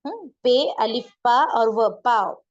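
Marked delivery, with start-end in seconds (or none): 2.0-2.4 पाँव short and loud as "paao"; nasal cut out. Shown as a demonstration. Urdu teacher spelling it out for learners, oral vowel. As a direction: punch out पाँव with no nose sound. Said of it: "cut कर देते हैं".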